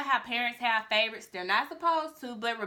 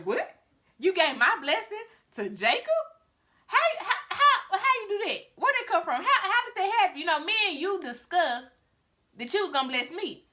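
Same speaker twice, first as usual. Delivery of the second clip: a son robbed of his blessing, stammering; outraged disbelief; 6 semitones higher than usual. Acted.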